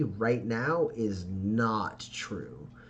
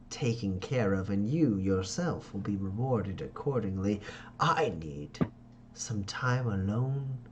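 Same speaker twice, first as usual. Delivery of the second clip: Ferdinand's commanding voice; 2 semitones lower than usual. Acted. Father Ferdinand sends Pax away to be alone, slow and gentle. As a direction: dismiss them gently but firmly. Ferdinand gives orders, dismisses them.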